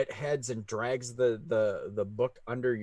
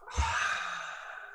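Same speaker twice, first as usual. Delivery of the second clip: squirrel sigh. Acted.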